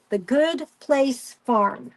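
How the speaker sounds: slow, settled, falling; slow confirmation. Real, not acted. Telling viewers the farm name, slow and firm. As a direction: spell the name out slowly for viewers. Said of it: "I think it's called The Good Place Farm".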